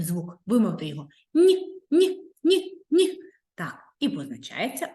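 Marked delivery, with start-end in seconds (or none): 1.3-3.2 high, loud teasing no no no; playful no-no. Pretend. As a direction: wag a finger at the wrong answer. Playful rejection. (грайливе «ні, ні, ні»)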